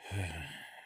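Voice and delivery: soft, falling sigh; resigned sigh. Real, not acted. Creator facing a possible last upload, sighing softly. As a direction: let out a quiet sigh of resignation. Channel may be erased.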